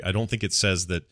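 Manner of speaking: usual speaking voice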